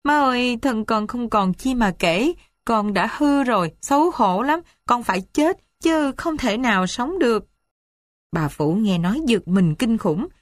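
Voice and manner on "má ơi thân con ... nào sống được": higher, choked-up sobbing words; a daughter breaking down to her mother, tearful; sobbing confession. Acted. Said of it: "nói tấm tức tấm tưởi rằng". (nức nở, nghẹn ngào)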